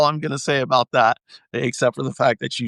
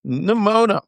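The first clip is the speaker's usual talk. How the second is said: imitating Nimona; 7 semitones higher than usual. Quoting the movie character.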